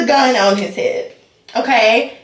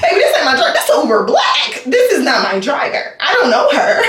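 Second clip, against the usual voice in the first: laughing plea. Retold or imitated. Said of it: "I was like".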